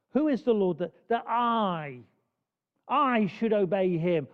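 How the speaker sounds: lightly voiced proud king; booming pharaoh. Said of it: "the emphasis in Pharaoh's voice".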